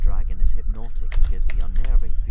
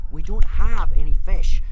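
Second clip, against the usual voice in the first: slow, loud, higher-pitched exasperation; through gritted teeth; 10 semitones higher, 8 dB louder than usual. A narrator's reading. Hiccup losing his calm with Toothless, gritted-teeth exasperation. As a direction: force it out slowly through clenched teeth. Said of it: "repeated Hiccup from between gritted teeth".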